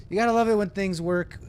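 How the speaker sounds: high-pitched mock cheer. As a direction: lift it high, pretending all is fine. Repeats it aloud to passengers.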